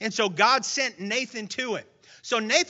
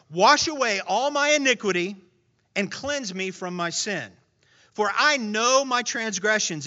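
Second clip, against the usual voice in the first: scripture reading; 3 dB louder than usual. Acted. Preacher reading the psalm to the congregation, earnest. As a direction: read it as a prayer of confession.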